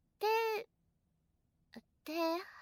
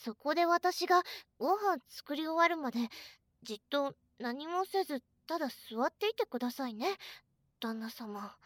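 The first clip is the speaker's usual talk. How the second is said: polite maid voice; 2 semitones lower than usual. Acted. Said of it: "口調も？".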